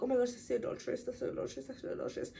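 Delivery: quick gossip fading into a hushed whisper. Retold or imitated. Townsfolk whisper about Hester, fading to a whisper.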